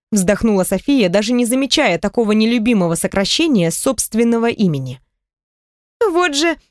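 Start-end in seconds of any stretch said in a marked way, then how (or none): 6.0-6.6 резкий сердитый выкрик, высоко; возмутись коротко и сердито; сердитый возглас. Acted. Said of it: "сердито откинулась". (сердитое «Вот же!» подруги)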